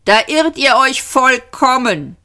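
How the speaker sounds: high, haughty rebuff; Vogon commander. A narrator's reading. Vogon commander flatly contradicts captives.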